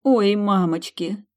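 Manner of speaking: high, drawn-out yelp of fright; frightened squeak. A narrator's reading. Heroine cowering before the turned prince, squeaking. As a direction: squeal it in alarm. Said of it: "пискнула".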